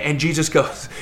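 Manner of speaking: ordinary talk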